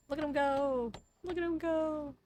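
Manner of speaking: high, squeaky coo; cutesy cooing. Real, not acted. Player watching a cute character walk, high cutesy voice.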